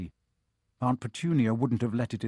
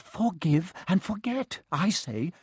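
higher, stammering, kindly monk; jolly booming friar; 6 semitones higher than usual. A narrator's reading. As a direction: plead gently for mercy. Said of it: "a fat little monk was saying".

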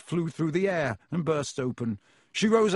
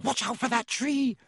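high, urgent warning cry; bellow; 8 semitones higher than usual. A narrator's reading. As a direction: call out a warning without full volume. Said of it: "Harry bellowed".

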